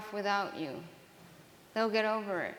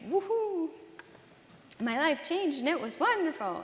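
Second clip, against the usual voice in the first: much higher and louder, a sarcastic cheer; mock euphoria; 7 semitones higher, 4 dB louder than usual. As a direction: fake the joy you never felt. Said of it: "things were like".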